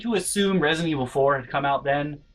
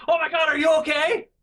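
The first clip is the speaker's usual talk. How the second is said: high, urgent panicked question; reenacted panicky worry; alarmed concern; 13 semitones higher, 4 dB louder than usual. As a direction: rush over frantic to check on them. Retells running over to hurt kid.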